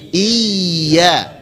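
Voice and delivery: "Iya" with a held, pressed double Y; stress on Y. Shown as a demonstration. Teacher modelling for students, "Iya" pressed on Y. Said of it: "yaknya yang ditekan".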